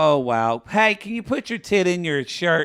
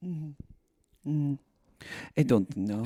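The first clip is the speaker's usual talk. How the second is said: Natalie; 7 dB quieter than usual. Retold or imitated. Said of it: "And Natalie goes".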